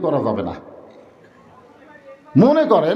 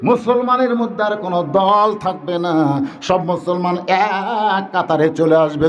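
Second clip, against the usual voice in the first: drawn-out sermon cadence; melodic preaching; 3 semitones higher, slower than usual. Real, not acted. Preacher tells the crowd all Muslims will unite, melodic preaching. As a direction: preach in long, tuneful phrases.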